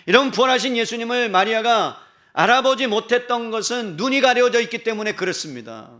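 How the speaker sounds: loud, high, ringing pulpit delivery; impassioned preaching. Real, not acted. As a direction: drive the question home, stretching the endings. Preaches at full force. (열정적으로 외치는 설교)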